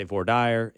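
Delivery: voir dire said as vor-DIRE; Southern pronunciation. Shown as a demonstration. Host explains Southern usage, voir dire as vor-DIRE. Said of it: "But in the South".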